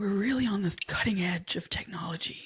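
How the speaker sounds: fake baritone, deep, slow and drawn out. Channeling Elizabeth Holmes for a co-host over a turtleneck: Elizabeth Holmes voice. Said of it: "let me channel her a little bit more".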